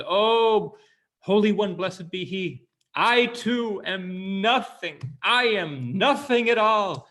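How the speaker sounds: high, loud, drawn-out plea; a mock-humble wail, stretched slow; pleading to heaven. Cantor kneeling beside the rabbi, wailing slowly to heaven. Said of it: "looks up to the heavens and says".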